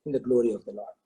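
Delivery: low, even, untroubled recital; lightly acted calm reassurance. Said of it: "The minister still is calm".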